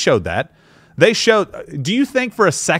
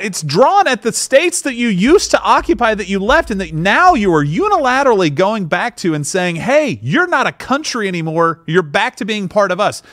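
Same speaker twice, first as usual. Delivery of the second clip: yelling; 5 semitones higher than usual. Real, not acted. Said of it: "Why are you yelling?".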